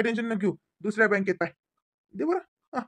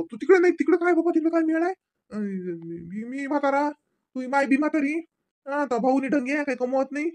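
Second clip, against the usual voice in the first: agitated insisting; 6 semitones higher than usual. Acted. Father insists she return.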